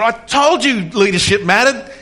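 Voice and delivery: high, loud retold shout out the window; triumphant yell. To the world from the car window, a joyful retold yell. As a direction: call it out to the whole world, half-laughing.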